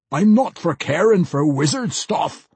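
lightly gruff dismissive interruption; a hint of a gruff dwarf. A narrator's reading. Pwent interrupts the mage, lightly gruff. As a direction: cut him off like a bored dwarf. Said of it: "Pwent interrupted".

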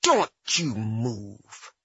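slow, threatening, through the teeth; through clenched teeth. Retold or imitated. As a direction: warn him through gritted teeth. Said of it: "through clenched teeth I said".

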